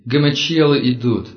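loud, frightened cry of alarm; panicked shout. Acted. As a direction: yell it as a warning in panic. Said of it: "Подгоняемый пронзительными выкриками".

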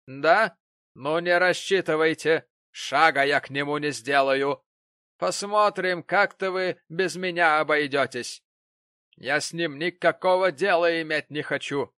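loud defiant refusal. Acted.

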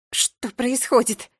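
slow, hollow question; muffled. A narrator's reading. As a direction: ask it dully and slowly. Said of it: "глухо спросила Джеральдина". (глухо, медленно)

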